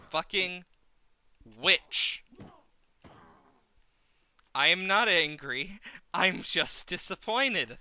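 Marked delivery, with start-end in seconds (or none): 4.6-7.8 mock disappointed parent. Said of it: "they say".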